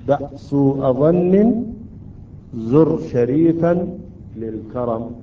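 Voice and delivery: slow, measured recitation word by word; reciting mnemonic verse. Shown as a demonstration. Teacher reciting the memory verse to students, slow recitation. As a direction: recite the verse slowly, spacing each phrase.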